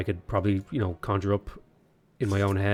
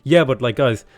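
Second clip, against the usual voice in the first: defensive excuse. Acted. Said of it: "He's like".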